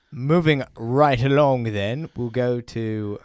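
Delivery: slow, put-on British accent. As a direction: announce the next question like a hammed-up Brit. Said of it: "I don't know what that British accent was".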